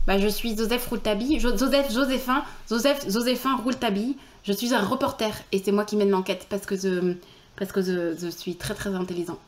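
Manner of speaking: "Joseph" and "je" lisped to "Zozeph" and "ze"; gentle lisp, j turned z in "Joseph" and "je"; light lisp. Acted. Reporter introducing himself, "je suis" lisped as "ze suis". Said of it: "faudrait que je travaille le zozotement pour que ce soit pas trop".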